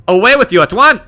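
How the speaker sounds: high, loud order to leave; acted dismissal. Game character dismisses the player.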